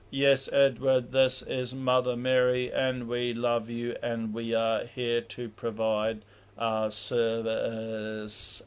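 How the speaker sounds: slow, stiff put-on Mother Mary voice; forced mimic. Shown as a demonstration. Teacher faking Mother Mary's telepathic voice to show it, slow and stilted. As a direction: fake the angelic voice, dragging each word. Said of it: "I'm gonna try and do a mimic".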